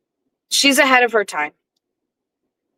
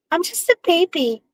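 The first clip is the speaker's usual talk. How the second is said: put-on soft, higher baby voice; cutesy baby voice; 9 semitones higher, 4 dB quieter than usual. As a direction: coo it quietly like a baby. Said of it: "You can't talk in a baby language".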